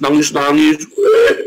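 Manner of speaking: sudden high, loud fake bawling; mock wail. Preacher mimicking a weeping congregant, mock wail. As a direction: imitate a crybaby wail.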